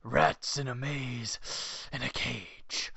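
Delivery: low, soft, slow imitation of a movie villain; Jack Palance. Host quotes the villain's line, imitating him slow and hushed. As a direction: draw the words out slowly, sinking to a hush. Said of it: "And Jack Palance goes".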